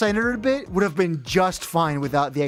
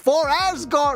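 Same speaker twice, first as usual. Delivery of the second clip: imitated screaming voice; 12 semitones higher than usual. Retelling a game character's repeated battle cry: imitating a character screaming. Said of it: "when she screams".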